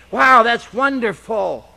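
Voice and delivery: mock delight at discovering scripture; excited wow. Excited reader quoted.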